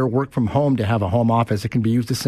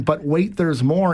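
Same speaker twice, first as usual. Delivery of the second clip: over eager infomercial; 2 semitones higher, slower than usual. Retold or imitated. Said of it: "an announcer saying".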